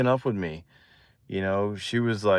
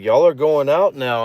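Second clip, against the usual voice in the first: higher, louder imitation; excited friend; 4 semitones higher, 5 dB louder than usual. Friend announcing they are a couple, excited. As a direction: announce it like an eager pal. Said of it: "all excited and stuff".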